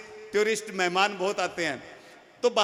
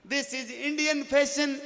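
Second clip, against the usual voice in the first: slow mock English; 3 semitones higher, much slower than usual.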